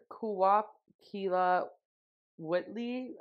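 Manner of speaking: "Kuwap Kila Whitley" sounded out slowly, syllable by syllable; unsure Quileute phrase. Shown as a demonstration. Host reading Edward's Quileute phrase aloud, slow and unsure. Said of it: "I'm probably butchering that".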